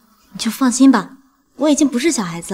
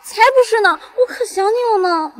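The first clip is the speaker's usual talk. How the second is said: pouting; 8 semitones higher, 3 dB louder than usual. Acted. Daughter protesting fondly.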